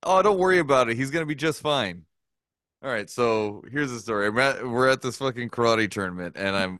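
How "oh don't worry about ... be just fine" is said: carefree promise that all will be fine; mock reassurance. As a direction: brush off a worried parent with easy confidence. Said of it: "It was".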